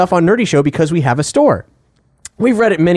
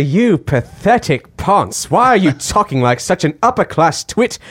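posh sneering insult, slowish; snooty upper-class accent; upper-class twit. Retold or imitated. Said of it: "Cap is just doing the voice".

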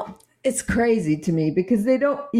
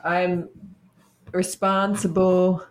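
put-on American accent. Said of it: "Why do you sound American suddenly?".

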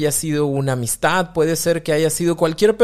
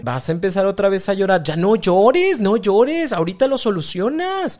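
impatient parent; 3 semitones higher than usual. Retold or imitated. Parent tells crying child to stop, exasperated. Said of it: "fue decir".

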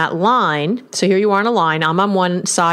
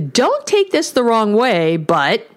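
mock passive-aggressive; 3 semitones higher, slower than usual. Shown as a demonstration. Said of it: "an even worse rendition".

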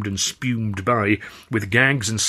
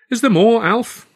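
a lightly voiced Charlie, higher and louder; Charlie's voice; 12 semitones higher, 7 dB louder than usual. Charlie eagerly pressing Alf for more news, higher. Charlie asks about the telegram.

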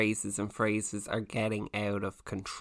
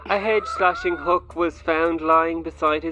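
louder news anchor read; newscaster voice; 3 dB louder than usual. Pretend. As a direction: deliver it like breaking news. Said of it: "in your best newscaster voice".

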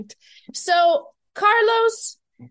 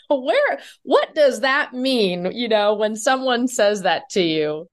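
ordinary talk, nothing marked

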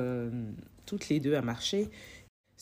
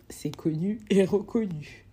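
conspiratorial whisper of a known fact; whispered aside; 2 semitones higher than usual. Real, not acted. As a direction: whisper it like a confession. Aside about her bad sense of direction. (chuchoté en aparté)

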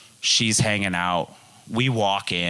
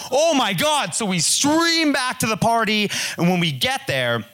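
panicked; 12 semitones higher than usual. Real, not acted. Panic after forgetting her.

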